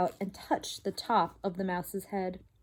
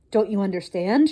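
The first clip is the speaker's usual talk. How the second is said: louder exasperated shout; shouting father mouse; 6 dB louder than usual. Acted. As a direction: demand it, fed up. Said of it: "shouted Lester".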